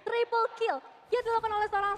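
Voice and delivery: excited commentary. Real, not acted. Co-caster reacting to the fight.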